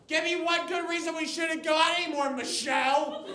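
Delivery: mock pleading boyfriend. Boyfriend pleading, voiced high.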